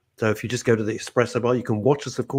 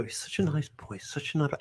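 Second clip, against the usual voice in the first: imitating people; 9 dB quieter than usual. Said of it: "they go".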